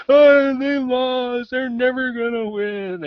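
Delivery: hammed-up gloating dad voice; mock gloating dad. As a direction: rub it in playfully like a teasing father. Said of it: "and he's like".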